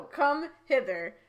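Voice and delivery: slow, deliberate "Come hither"; measured correction of a misread phrase; careful correction. Shown as a demonstration. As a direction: say "Come hither" slowly, separating the two words. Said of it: "I misread that".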